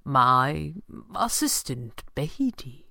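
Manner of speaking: slow, offhand introduction; casual. Acted. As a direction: toss it off lightly. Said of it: "Fenwick said casually".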